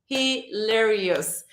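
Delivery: "Hilarious" stretched out slowly; slow savoring. Shown as a demonstration.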